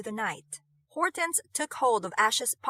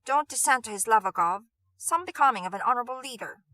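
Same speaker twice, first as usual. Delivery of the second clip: put-on Cockney accent, louder and fast; lightly voiced Cockney man scolding his boss; gruff Cockney; 4 dB louder, faster than usual. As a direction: bark it in a rough Cockney accent. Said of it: "his Cockney accent gruff".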